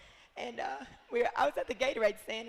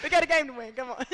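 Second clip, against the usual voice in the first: louder, mock team pep call; mock coach rallying; 3 semitones higher, 7 dB louder than usual. Player mimicking coach's pep talk, mock rallying call. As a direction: bark it like a coach firing up the team.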